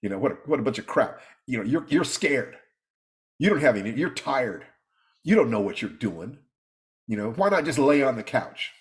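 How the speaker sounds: quick scornful inner critic, brushing it all off; lightly voiced mocking inner critic; dismissive inner voice. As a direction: rattle off the doubts like a sneering voice in your head. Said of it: "the voice in my head that says".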